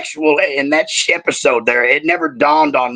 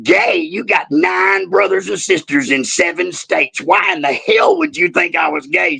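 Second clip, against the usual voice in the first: retold shout; 3 semitones higher than usual. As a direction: shout it back in disbelief, voice cracking. Dad answers crying daughter.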